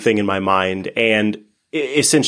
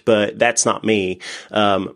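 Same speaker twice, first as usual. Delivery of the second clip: ordinary talk, nothing marked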